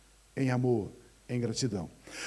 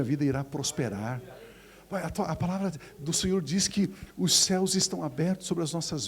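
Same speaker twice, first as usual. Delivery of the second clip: confident believer; 2 semitones lower than usual. Retold or imitated. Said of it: "começa a praticar a gratidão".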